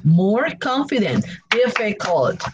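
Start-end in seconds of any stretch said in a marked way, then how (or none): 1.5-2.4 "Difficult" in three separate beats, DIF-FI-CULT; syllable by syllable. Shown as a demonstration. Teacher counts three syllables for learners, syllable by syllable. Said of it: "three syllables".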